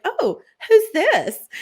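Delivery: a laughing mock-flirt spotting the prince; flirty. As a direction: draw the question out to catch his eye.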